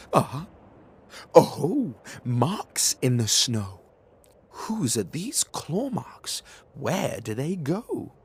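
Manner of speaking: loud discovery, then hushed wondering; curious child. Acted. Gruffalo's child finding claw marks. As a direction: find the marks, then whisper the question.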